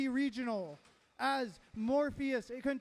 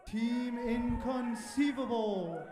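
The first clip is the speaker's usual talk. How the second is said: slow drawn-out hype shout; fighting game announcer; slower than usual. Real, not acted. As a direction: stretch the name out, arena style. Announcer calls out team name.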